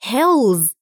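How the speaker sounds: hills ending in a voiced z sound. Shown as a demonstration. Teacher shows learners the plural ending, hills with z. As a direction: close hills with a z. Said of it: "ينطق مثل حرف ال Z".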